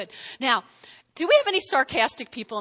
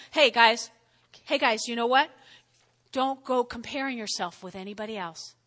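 gently toned-down friendly advice; nicer; 3 semitones lower than usual. Acted. Preacher softening Paul's rebuke for the church, nicer tone. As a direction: ease off into a kindly correction. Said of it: "say it in nicer words".

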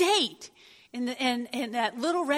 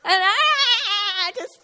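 laughing; 8 semitones higher, 6 dB louder, much slower than usual. Real, not acted. Laughing at own memory.

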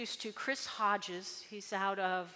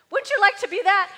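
excited aside; 9 semitones higher, 12 dB louder than usual. Acted.

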